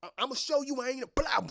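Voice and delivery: high, loud hype; friends egging on. Retold or imitated. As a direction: cheer your boy into a fight. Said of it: "his friends are just".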